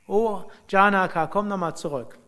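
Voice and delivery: calling out. Retold or imitated. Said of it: "Als Janaka fast außer Hörweite war". (laut hinterherrufend, höher)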